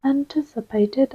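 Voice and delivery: put-on questioning echo in a British accent. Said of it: "said that in a British voice".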